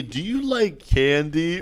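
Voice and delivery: slow, drawn-out candy offer; put-on weird stranger, unhurried; creepy stranger. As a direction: lure a kid slowly, playing creepy. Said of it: "I sound so weird right now".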